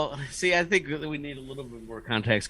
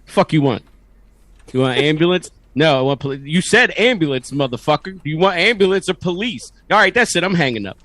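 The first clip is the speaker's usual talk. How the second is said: frustrated operator; 3 semitones higher, 4 dB louder than usual. Retold or imitated. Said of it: "very frustrated".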